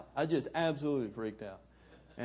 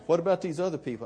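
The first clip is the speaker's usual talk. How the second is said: loud, higher booming question; thundering voice; 6 semitones higher, 8 dB louder, faster than usual. Retold or imitated. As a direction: call it out across the room. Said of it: "talking just with a thundering voice".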